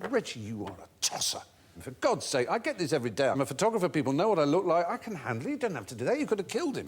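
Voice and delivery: a touch of an angry scolding; mild angry telling-off. Retold or imitated. Bailey scolding Reggie after the punch, mild angry rebuke. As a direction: tell him off, mildly indignant. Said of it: "is very angry".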